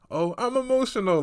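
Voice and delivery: high, whiny mock of "I'm emotional"; sarcastic whiny voice; mocking imitation. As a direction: parody her playing the victim. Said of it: "I hate when people do this".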